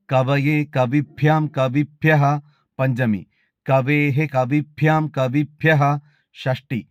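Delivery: measured, even chanting of each case form; model recitation. Shown as a demonstration. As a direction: recite the declension slowly, like a student at a recitation contest. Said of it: "നമുക്ക് നോക്കാം". (മാതൃകാ അവതരണം, ഓരോ രൂപവും താളത്തിൽ ചൊല്ലുന്നു)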